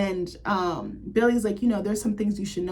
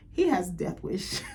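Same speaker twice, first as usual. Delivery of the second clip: laughing; slower than usual. Real, not acted.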